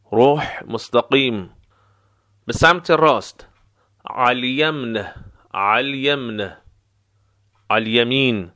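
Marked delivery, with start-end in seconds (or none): 4.1-6.6 slow علیمن, starting on a throat ع; ayn-only contraction. Shown as a demonstration. Teacher showing the short form, ayn-only علیمن. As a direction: draw out علیمن, pronouncing only the ع of the first word. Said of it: "فقط حرف عین تلفظ می شود".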